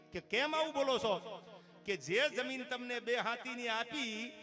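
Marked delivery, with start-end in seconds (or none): 0.2-1.4 hurt surprise. Acted. Patel hurt by taunt. 2.0-4.3 slow explanation. Acted. Munim explains slowly.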